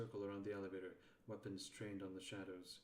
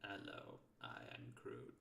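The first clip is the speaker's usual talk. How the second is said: low, hushed, barely voiced creature; Kroot voice; 9 semitones lower, 5 dB quieter than usual. Shown as a demonstration. Showing chat the Kroot voice, low and hushed. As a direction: introduce yourself as a soft-spoken alien. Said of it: "Can everyone in chat hear the Kroot voice?".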